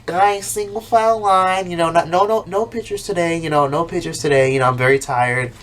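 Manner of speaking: cocky celebrity. Retold or imitated. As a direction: act like a tired star. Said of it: "She's over here like".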